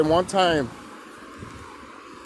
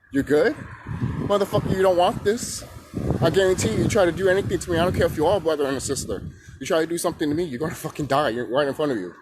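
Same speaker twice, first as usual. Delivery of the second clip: raised, menacing threat; threatening; 3 semitones higher than usual. Retold or imitated. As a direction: warn him off hard. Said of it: "I'm over here like".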